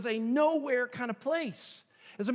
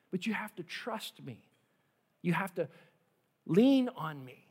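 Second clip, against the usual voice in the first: gentle Jesus; 4 semitones lower, 3 dB quieter than usual. Acted. Jesus speaks, pastor voices him.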